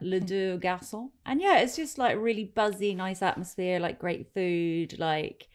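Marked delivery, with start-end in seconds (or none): 0.0-1.1 slow, self-mocking French accent. Shown as a demonstration. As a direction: say it like a bad French waiter. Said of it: "It's gonna be a terrible French accent".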